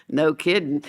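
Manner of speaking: mildly mocking smart-aleck child. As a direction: drop it like a little wise guy. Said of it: "one little smart aleck said".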